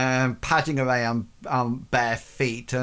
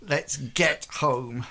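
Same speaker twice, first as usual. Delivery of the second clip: queasy murmur; 5 dB quieter than usual. Acted. Ashton urges the group on while holding down vomit, very soft. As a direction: hold back the sick while talking. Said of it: "he sort of says".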